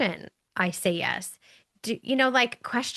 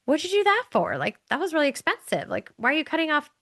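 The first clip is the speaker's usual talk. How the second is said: higher-pitched baffled husband; questioning husband; 5 semitones higher, faster than usual. Retold or imitated. New husband questions wife about trimmed roast, baffled. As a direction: quote the husband's puzzled protest, pitched up.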